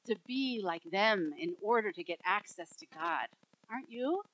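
understate the irony, letting it sink in; dry irony. Real, not acted. Preacher ironically asks congregation about religious leaders, dry irony. Ironic claim, first take, hushed.

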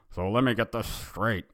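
a first, understated go at irate cartoon dad; angry Homer Simpson. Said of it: "extremely angry and said".

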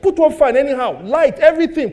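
hammed-up household shouting; mock shouting. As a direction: shout out the cost-cutting orders. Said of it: "I'm shouting".

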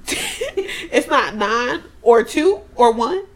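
slow, laughing mock question; drawn out through laughter; laughing disbelief. Friends recapping a show, laughing at the characters.

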